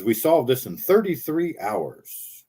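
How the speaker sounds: slow, pointed stress on "thirty-three"; "thirty-three" spelled out slowly and knowingly; mock message to Freemasons. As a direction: draw out "thirty-three hours" as a mock coded signal. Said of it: "I'm speaking to the Freemasons".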